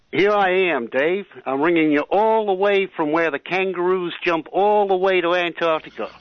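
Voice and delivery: Australian having a go at sounding American; attempted American accent. Shown as a demonstration. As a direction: put on an imperfect American accent. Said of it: "an American accent, so he-, here it is".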